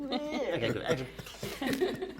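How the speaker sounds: mock directing. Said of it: "Oh, yeah, I said, uh".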